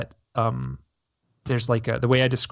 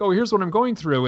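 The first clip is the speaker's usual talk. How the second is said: mock complaining; 7 semitones higher, 3 dB louder than usual. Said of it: "like, here's the".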